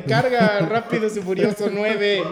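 desperate plea, hammed up; mock pleading. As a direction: beg the screen to hurry, drawing it out. Acting his plea to the screen.

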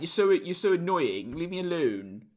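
whiny put-on teenager for a dog; mock-annoyed sketch-character voice; Vicky Pollard. Owner voicing his dog telling Dad off, Vicky Pollard impression. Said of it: "she sounds a bit like Vicky Pollard".

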